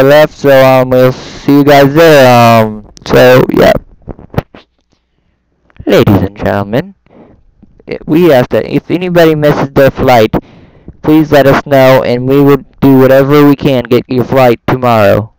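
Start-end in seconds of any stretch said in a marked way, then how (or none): 5.9-15.3 lightly played airport announcer. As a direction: announce it over the airport speakers. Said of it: "that's the best I got so far".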